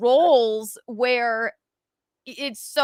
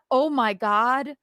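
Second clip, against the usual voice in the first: mock mortified apology; 4 semitones higher than usual.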